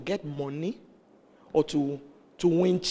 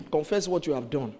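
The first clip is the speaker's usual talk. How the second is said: retold pastor's instruction; 3 semitones lower than usual. Pastor asks the woman, restrained low-key command. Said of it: "he said".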